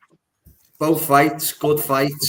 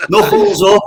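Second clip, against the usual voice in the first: raised, punchy fight-night call; hype call; 6 semitones higher, 7 dB louder than usual. Acted. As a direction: fire them up like a ring announcer. Host rallies fighters, hype call.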